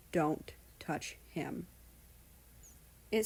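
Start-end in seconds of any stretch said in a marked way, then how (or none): 0.1-1.7 cold threat. Acted. Russia warns the king off, quiet and slow. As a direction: menace him quietly.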